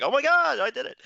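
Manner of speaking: a high, delighted squeal of disbelief; thrilled gasp. Retold or imitated. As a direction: relive the moment you realized you made it. Retelling his own commercial triumph.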